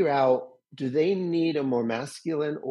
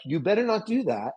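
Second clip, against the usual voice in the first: higher stern warning voice; stern critic; 7 semitones higher than usual. Retold or imitated. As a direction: scold like a strict parent. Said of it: "the inner critic is like".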